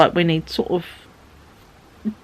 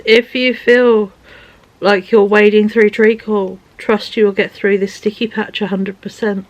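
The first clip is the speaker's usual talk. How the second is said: reading aloud; 3 semitones higher, 3 dB louder than usual. Shown as a demonstration. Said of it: "And I'll read it for you".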